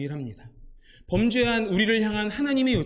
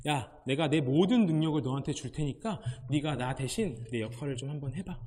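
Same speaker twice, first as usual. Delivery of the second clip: God's voice; 5 semitones lower, 4 dB quieter than usual. Retold or imitated. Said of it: "이렇게 말씀하십니다".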